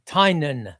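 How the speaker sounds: Tynan said TIE-nun, two syllables; demonstrated pronunciation. Shown as a demonstration. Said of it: "That's how he pronounced his name".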